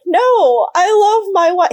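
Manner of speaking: hammed-up loud devotion; mock earnest declaration. Husband mock-insisting he loves his wife, hammed-up loud. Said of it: "he was like".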